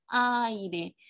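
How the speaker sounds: "Aire" drawn out, "ai" kept together; syllable demo. Shown as a demonstration. Teacher repeating the diphthong example, syllable demo. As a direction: sound out "Aire" as "ai", then "re". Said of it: "van a estar en esta sílaba".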